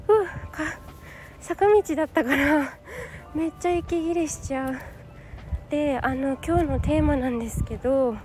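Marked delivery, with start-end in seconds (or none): 0.1-4.8 breathless from the uphill walk; panting between words; out of breath. Real, not acted.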